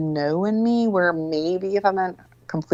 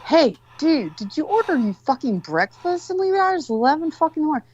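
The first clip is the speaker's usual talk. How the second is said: yelling upstairs; 9 semitones higher than usual. Retold or imitated. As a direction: shout up to a sleeping son. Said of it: "So I yell up to my son".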